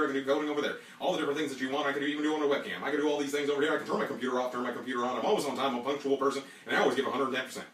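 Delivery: fast, loud auctioneer pitch. Pretend. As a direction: rattle off skills like an auction. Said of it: "how would your auctioneer experience do".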